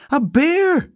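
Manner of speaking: loud, very high, doubting query; doubtful. A narrator's reading. Housekeeper told it's a bear, doubtful. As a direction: echo it with high-pitched doubt. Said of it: "said Missus Bird doubtfully".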